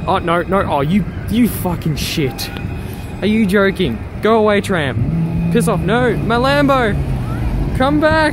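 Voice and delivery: loud, drawn-out protest; exasperated wail. Real, not acted. Vlogger yells at a tram hiding the Lambo, exasperated wail. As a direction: wail at the thing blocking your view.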